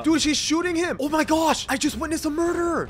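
high-pitched startled outcry; playful alarm. Pretend. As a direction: react in mock horror to an in-game crime. Witnesses a shooting in the game.

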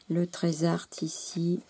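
slow, hushed whisper; slow awed whisper over a treasure. Real, not acted. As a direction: whisper it like a secret find. Revealing a hidden treasure.

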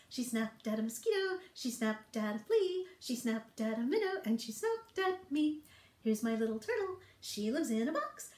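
lilting rhyme recital for toddlers; children's poem. Acted. Teacher reciting turtle poem to toddlers, lilting rhyme. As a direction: recite it playfully with a sung ending.

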